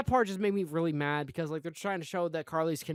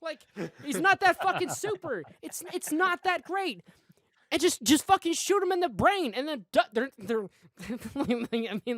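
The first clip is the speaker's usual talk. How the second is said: higher and louder, fired-up ranting; heated rant; 6 semitones higher, 3 dB louder than usual. Real, not acted. Podcaster ranting at a dumb show scene, worked-up and loud. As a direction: vent it hard, like the scene personally insulted you. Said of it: "the passion right there".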